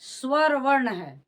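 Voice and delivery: स्वर वर्ण है said slowly, स्वर leaned on; emphatic answer. Shown as a demonstration. Teacher answering own question for class, slow and emphatic. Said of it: "यह आपका क्या है?".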